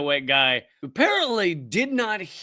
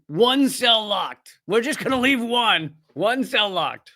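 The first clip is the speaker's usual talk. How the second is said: raised pitch, mock-incredulous quote; mocking disbelief; 4 semitones higher than usual. Commentator mimicking rebels who left one cell, mocking disbelief. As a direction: imitate them with scornful emphasis.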